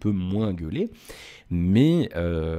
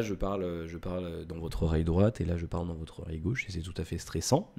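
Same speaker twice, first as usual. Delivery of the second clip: right in your ear; 4 semitones lower, 5 dB quieter than usual. Shown as a demonstration. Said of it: "j'arrête de jouer comme un gros débile". (tout près de l'oreille, lentement)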